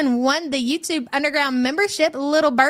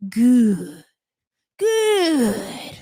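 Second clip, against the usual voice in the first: mock crying. Mocking the crying YouTuber, fake sobbing. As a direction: imitate a weepy YouTuber blubbering. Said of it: "rest in piss YouTuber would say".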